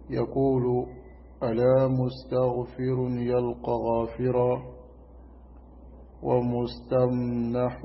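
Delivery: measured Arabic poem recitation; steady, even chant-like recital; verse recitation. Acted.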